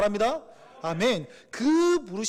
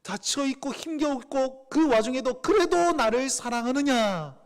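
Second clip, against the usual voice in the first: pleading question; 4 semitones higher, 3 dB louder, slower than usual. Acted. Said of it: "물으십니다".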